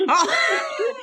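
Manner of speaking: a sudden high squeak of surprise; high surprised oh. Real, not acted. Hearing about the spitting teacher, squeaky surprise. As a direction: yelp it in shock.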